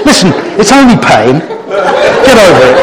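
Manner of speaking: laughing teasingly, slowed on the last words. Real, not acted. Speaker teasing the children about pain, laughing. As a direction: tease them through real laughter. After children's snake-bite impressions.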